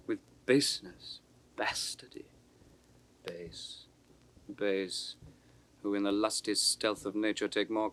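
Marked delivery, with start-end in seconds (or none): 1.6-3.9 whisper. Acted. Edmund's scornful soliloquy.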